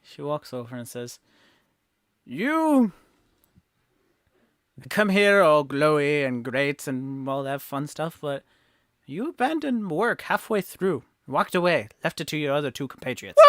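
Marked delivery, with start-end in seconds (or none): 2.2-13.4 loud, indignant telling-off; scolding mom. Acted. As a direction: scold them like a disappointed mother. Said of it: "Chris is getting scolded by mom".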